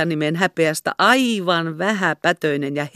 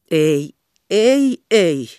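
louder, firm refusal; stern; 5 dB louder, much slower than usual. A narrator's reading. Hannes refusing marriage talk, sternly though pleased. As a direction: shut it down sternly. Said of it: "sanoi hän ankarasti".

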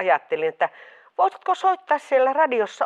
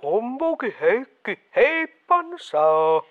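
odd disguised voice. Acted. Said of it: "sunkin ääni kuulostaa jotenkin oudolta".

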